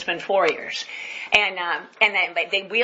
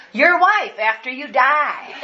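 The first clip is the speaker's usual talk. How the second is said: slow, laughing delivery; laughing punchline; 5 semitones higher, 4 dB louder, slower than usual. Retold or imitated. Pastor delivering the joke to Roy, slow and laughing. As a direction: savour the punchline.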